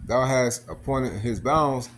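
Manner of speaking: slow, measured scripture recitation; scripture reading. Acted. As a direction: read the verse out slowly and deliberately. Reads scripture aloud while preaching.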